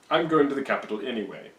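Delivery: pompous dismissal. Retold or imitated. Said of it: "Caesar's really pompous".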